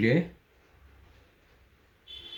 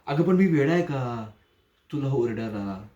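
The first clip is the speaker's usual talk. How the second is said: mock outrage; 2 semitones higher, 3 dB louder than usual. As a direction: snap it out as if offended at the idea. Mocking reassurance turning menacing. (उपहासाने चढलेला आवाज)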